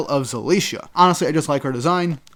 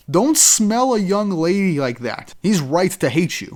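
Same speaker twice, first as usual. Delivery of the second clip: higher, slow, offended put-on girl voice; indignant lady; 4 semitones higher, slower than usual. Zelicia scolding Hein for sniffing her, mock-offended and higher. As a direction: act primly scandalised, drawing it out. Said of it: "she's like".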